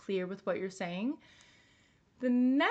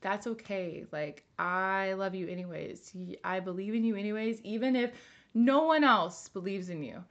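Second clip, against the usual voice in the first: comforting herself. Shown as a demonstration. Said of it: "And then you would say to yourself".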